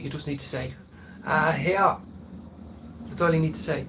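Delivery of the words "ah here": Northside Dublin accent, louder. Showing how to speak like a Northside Dublin man: Northside Dublin accent. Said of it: "if you wanna speak like a, a Dublin man, uh, an Northside Dub".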